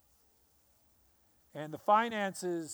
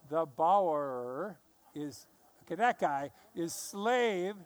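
slow deliberate; slower than usual. Shown as a demonstration. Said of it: "hard to say this seriously with y'all laughing".

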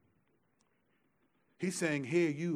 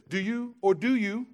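forceful reading; 7 semitones higher, 8 dB louder than usual. Real, not acted. Starts reading scripture forcefully.

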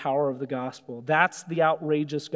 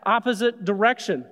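1 defiant Jonah; 4 semitones higher, faster than usual. Retold or imitated. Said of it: "He's like".

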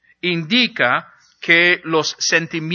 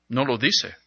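ordinary delivery

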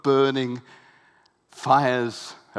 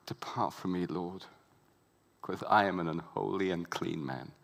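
softer, hushed plea; humble Peter; 6 semitones lower, 7 dB quieter than usual. Acted. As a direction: kneel and beg him to go. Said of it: "Peter on his knees says".

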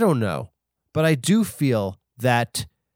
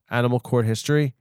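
ordinary talk, nothing marked

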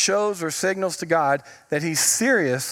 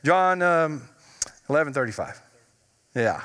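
put-on teen attitude; 3 semitones lower than usual. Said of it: "with the attitude".

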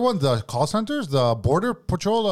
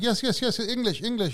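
higher, broken-English immigrant act; playing a foreigner; 7 semitones higher, 3 dB quieter than usual. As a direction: play dumb in broken English. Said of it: "I play along".

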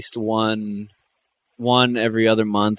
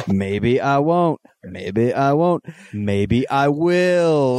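slow crooner talk; like a famous singer; much slower than usual. Pretend. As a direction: drawl it like a lounge crooner. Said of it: "sounds like you're doing a famous singer".

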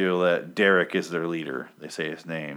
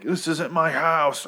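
higher, slow mock-panicked outburst; imitating Pete freaking out; 9 semitones higher, slower than usual. Retelling Pete's breakdown to viewers: hammed-up panicked outburst. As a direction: ham up a man losing it. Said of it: "Pete's like".

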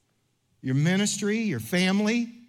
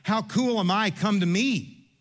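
mock arrogance; 4 semitones higher, slower than usual. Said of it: "not of a place of arrogance".

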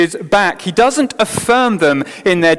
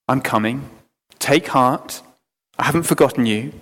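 softer, gentle reassurance; comforting; 3 semitones lower, 3 dB quieter than usual. Acted. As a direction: comfort a frightened people quietly. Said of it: "the Lord has offered words of comfort".

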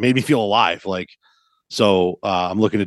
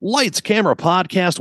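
announcer call; 9 semitones higher than usual. Acted. Mock film set opener.

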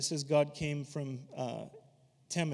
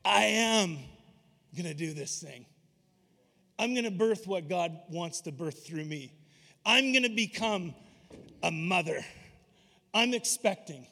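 emphatic resolve. Retold or imitated. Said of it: "There was an emphasis on".

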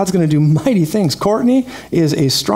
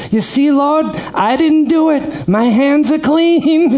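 Godfather voice; 11 semitones higher, slower than usual. Retold or imitated. Old King David instructing his son Solomon, as the Godfather. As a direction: talk like a Godfather with cotton in your mouth. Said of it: "he looked at the Lord and said".

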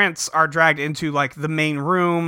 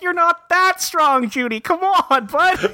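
very high, slow patronizing voice; robot mocking Junie's weak punch; mock condescension; 13 semitones higher, slower than usual. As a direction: talk down to him like a kid. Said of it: "she's like".

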